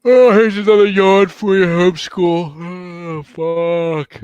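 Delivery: high, loud, slow mock dictator; Hitler impression. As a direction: ham up a villain. Acting Hitler signing book.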